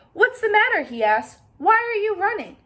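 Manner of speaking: high, loud startled turkey; a fussy bird calling out. Acted. Turkey Lurkey calls to the running friends, high and loud.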